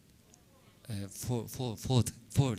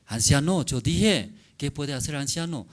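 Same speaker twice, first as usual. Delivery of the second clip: put-on dismissive young man; 4 semitones higher, 5 dB louder than usual. Young man rebuffs old man.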